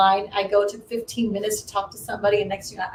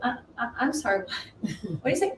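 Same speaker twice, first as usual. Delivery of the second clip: stunned; 2 semitones higher, 5 dB quieter than usual. Retold or imitated. Stunned by offer of a ticket.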